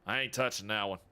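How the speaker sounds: imitating Sephiroth. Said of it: "would make Sephiroth go".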